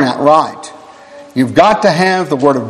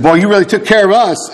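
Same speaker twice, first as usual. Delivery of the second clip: laughing retold quote; 4 semitones higher than usual. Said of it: "they said".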